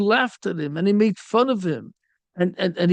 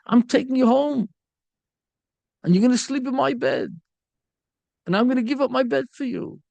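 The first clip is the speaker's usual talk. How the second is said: pleading son; 4 semitones higher, faster than usual. Acted. Father and expelled son argue.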